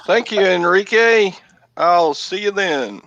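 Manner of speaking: put-on hammy Spanish accent voice.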